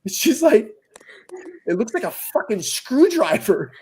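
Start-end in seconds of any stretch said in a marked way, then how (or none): 1.7-3.7 put-on quoting the kid while cracking up; can't hold the laugh on "screwdriver"; laughing through the quote. Retelling daughter's line, laughing.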